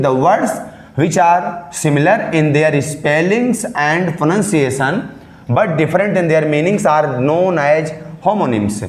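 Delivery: very slow, word by word, like dictating notes; slow dictation. Shown as a demonstration. Teacher dictating a definition to students, very slowly. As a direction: spell out each word so students can write it down.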